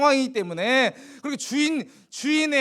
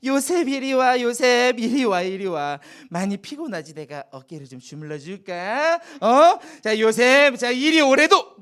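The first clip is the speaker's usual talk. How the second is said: seductive wife. Acted. Potiphar's wife coaxing Joseph to come, seductive. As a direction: lure him over, playful and insistent. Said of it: "유혹했어요".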